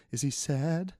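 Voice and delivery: worried women. Retold or imitated. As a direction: voice the anxious wives in the doorway. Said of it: "standing in the doorway like".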